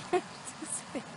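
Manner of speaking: breaking into laughter mid-line; laughing. Real, not acted. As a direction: laugh through the words. Laughs mid-sentence, then repeats.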